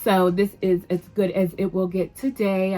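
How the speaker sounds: flat robotic monotone. Real, not acted. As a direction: stiff robot-like delivery. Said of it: "I sound like a robot".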